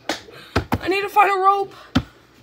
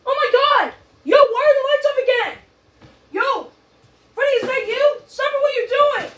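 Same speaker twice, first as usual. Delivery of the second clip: higher, agitated calling out; alarmed; 5 semitones higher than usual. Real, not acted. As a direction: demand answers in alarm. Lights go off, confronting Freddy.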